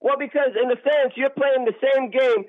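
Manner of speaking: agitated, accusing comeback; yelling. Real, not acted. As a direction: push back in real irritation. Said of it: "you're yelling at me".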